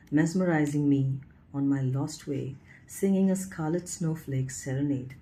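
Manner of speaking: lyrical, lilting poem reading with rises; poetry recital. Acted. Reading her student's ballad to her viewers, lyrical recital.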